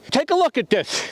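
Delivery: usual speaking voice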